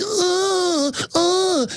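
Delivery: high, drawn-out mock oohs; imitated squeamish cooing moans; mimicked trendy noises. Trendies pointing him out, mimicked high oohs. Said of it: "making these noises".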